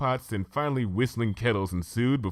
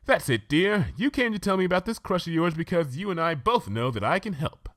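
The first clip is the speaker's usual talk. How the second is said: much higher, posh-sounding unicorn lady, chatty; Rarity, refined lady; 10 semitones higher than usual. Acted. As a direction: play the prim fashion pony gushing about tea. Rarity voiced by reader.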